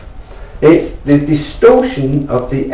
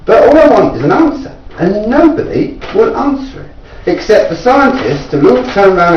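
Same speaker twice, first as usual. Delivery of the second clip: higher, insistent and aggrieved; frustrated plea; 6 semitones higher than usual. Real, not acted. Inventor complaining nobody answers him, higher and frustrated. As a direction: demand an answer nobody gives.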